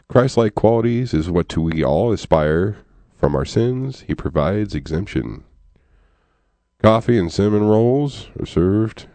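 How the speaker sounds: poem read in a loosely attempted Missourian accent. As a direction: try a Missouri accent while reciting a poem. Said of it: "I'm going to be doing my Missourian accent".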